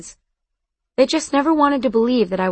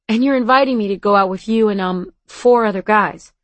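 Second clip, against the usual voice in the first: smiling. Acted. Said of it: "I could hear the smile in his voice".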